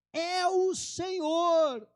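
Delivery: high, loud and slow, full of recognition; excited cry. Retold or imitated. John calling to Peter from the boat, loud excited cry. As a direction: call out the Lord's arrival in awe.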